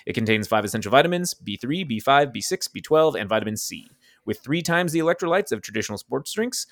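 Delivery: upbeat sponsor read. Acted. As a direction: read it like a podcast ad. Reads a sponsor ad.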